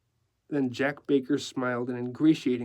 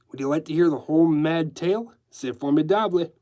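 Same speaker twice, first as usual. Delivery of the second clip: lively decorator with French flourishes; breezy decorator; 3 semitones higher, 4 dB louder than usual. Acted. Decorator offering newsman his mad tale, breezy. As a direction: offer the tale with showy zest. Decorator's lines in narrated story.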